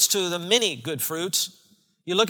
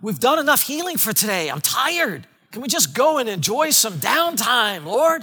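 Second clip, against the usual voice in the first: higher, weary pleading; tired disciples; 4 semitones higher, 3 dB louder than usual. Pretend. Disciples asking Jesus for downtime, tired whine. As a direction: whine like a worn-out follower. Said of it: "The disciples must have once in a while said".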